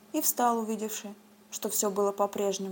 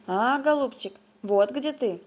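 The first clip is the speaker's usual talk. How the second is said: bleating ram head; 2 semitones higher, 4 dB louder, slower than usual. Acted. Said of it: "заблеяла баранья голова".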